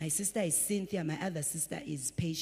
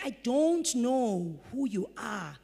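voicing God; 3 semitones higher, 4 dB louder, slower than usual. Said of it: "he's like".

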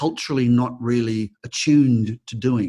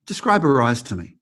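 imitated soothing coaching. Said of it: "And he went".

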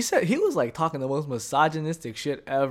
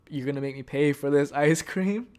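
retold pushy question, stressed on "ice cream"; a little aggressive; 3 dB louder than usual. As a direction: quote him demanding an answer, mildly confrontational. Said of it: "like, a little bit aggressive".

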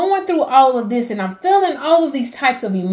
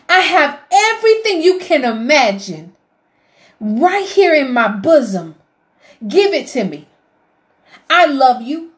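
God calling tenderly; 3 semitones higher than usual. Retold or imitated. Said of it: "He's standing there with his arms open and saying".

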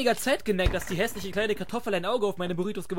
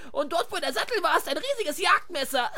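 higher, giggling delivery; laughing through it; 8 semitones higher than usual. Acted. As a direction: giggle while describing the wreck. Laughing while explaining the bike.

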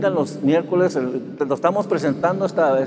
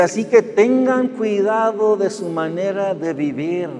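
slow scripture reading; 4 semitones higher than usual. Shown as a demonstration. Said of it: "¿Sí escucharon eso?".

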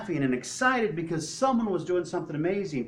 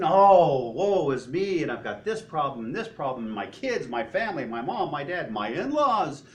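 mock woe-is-me; 4 semitones lower, 5 dB louder than usual. Preacher mimicking someone focusing on their troubles, mock self-pity. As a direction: moan it like a self-pitying complainer.

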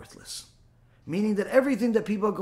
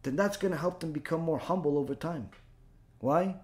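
much softer and lower; hushed reflection; 5 semitones lower, 9 dB quieter than usual. Acted. Rabbi softly explaining how ridicule builds humility. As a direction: let it fall to a near hush.

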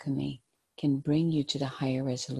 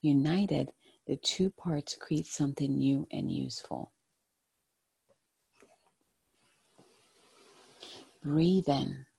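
gentle, hushed guided-meditation voice. Acted. Tarot card reading, meditative guidance.

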